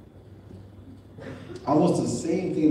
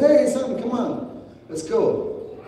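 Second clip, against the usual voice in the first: happy father; 10 semitones higher, slower than usual. Retold or imitated. Father greeting son in example.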